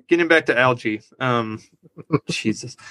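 trying not to laugh; can't keep straight face. Real, not acted. Host getting back to Algie, failing to keep a straight face. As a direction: let a chuckle break into the words. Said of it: "can't even do that with straight face".

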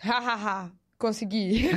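mock triumphant chuckle; spaced-out "ha ha ha" of someone who got their way; riso triunfante imitado. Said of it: "sabe aquele sorriso da pessoa que fala assim". (imitação de sorriso vitorioso)

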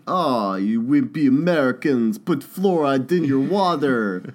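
lightly mocking Russian accent; put-on Russian accent. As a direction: play a scornful Russian, accent lightly hammed up. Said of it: "we got a Dale accent".

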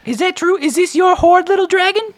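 very high, squeaky hustler voice. Acted. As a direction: play a slick, grinning money changer. Money changer talks to Snack.

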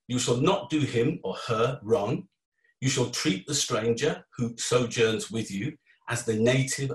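slow, measured reading of the verse; scripture reading. Acted. Speaker reading Bible verse to listeners, slow and measured. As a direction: read it out like a text from the pulpit. Reads Leviticus scripture passage aloud.

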